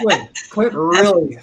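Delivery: slow words broken by real laughter; laughing while talking. Real, not acted. Teasing her colleague about smiling, laughing as she speaks. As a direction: chuckle through the tease about Clint.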